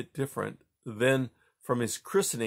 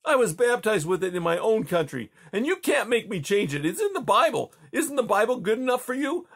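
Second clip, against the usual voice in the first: rising anger; 10 semitones higher than usual. A narrator's reading. Boy defying the Tsar, building rage. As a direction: stand your ground, getting angrier. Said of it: "with rage".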